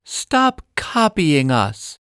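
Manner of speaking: put-on slow, firm little-girl voice; a child's half-hearted yell, slowly; mild mock shout. Lizzie scolding the copying parrot, mild girl's shout. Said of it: "Lizzie shouts".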